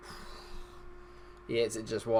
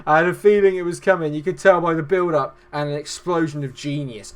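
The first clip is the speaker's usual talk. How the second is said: loud, raised post-goal gushing; elated; 4 semitones higher, 9 dB louder than usual. Real, not acted. Commentator revelling in his team's goal, loud elation. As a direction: keep celebrating at high volume.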